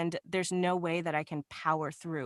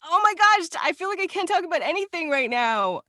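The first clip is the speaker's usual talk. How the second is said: excited; 11 semitones higher, 9 dB louder than usual. Real, not acted. Excited gasp at the question.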